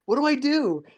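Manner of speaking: high put-on voice, imitating him; mock helpless plea. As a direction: act out his squeaky, helpless question. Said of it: "and he's like".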